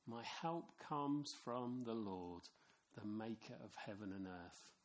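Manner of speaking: slow, softening psalm answer; slow soft psalm answer; reverent answer. Acted. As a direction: let the answer settle gently.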